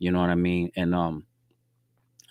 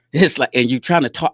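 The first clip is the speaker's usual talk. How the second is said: laughing; 5 semitones higher, 8 dB louder than usual. Real, not acted. Laughing at the young man's nerve.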